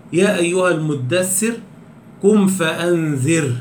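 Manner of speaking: measured recitation of the verse, tarqeeq on فأنذر; Quran recitation. Shown as a demonstration. Teacher reciting a Quran verse as example, measured recitation. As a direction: recite it for the students as a tajweed example. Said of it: "نحو إيه؟".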